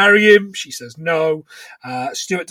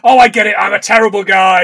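mock indignation; 3 semitones higher, 5 dB louder than usual. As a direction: throw it back as a mock-aggrieved husband. Retelling an acted argument.

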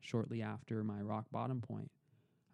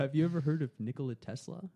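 put-on higher, louder knowing old man; grandfather's voice; 5 semitones higher, 8 dB louder than usual. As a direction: tease him with a knowing question. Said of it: "and he goes".

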